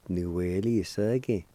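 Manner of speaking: "nuelisege" slowly, as one linked word; slow, connected teaching demo of "nuelisege"; careful pronunciation. Shown as a demonstration. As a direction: model "nuelisege" carefully for learners. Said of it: "I'll pronounce these words one more time".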